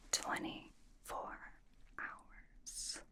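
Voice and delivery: slow, very soft whisper; hushed announcement. Acted. Host revealing the winner's prize, in a slow whisper. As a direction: let it sink away into a drawn-out whisper.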